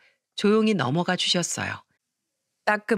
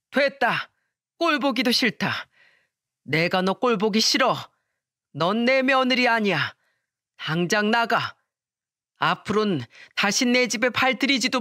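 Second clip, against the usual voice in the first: angry father throwing her out; furious; 2 semitones higher than usual. Acted. Father-in-law expelling his son's wife, furious. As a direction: order her out with cold fury. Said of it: "잔뜩 화가 난 채로 말씀하셨고".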